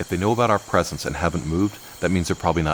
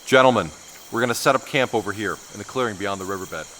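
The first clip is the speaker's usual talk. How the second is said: calling out to the team; 4 semitones higher than usual. Acted. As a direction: raise your voice to reach the men. Calling the team across camp.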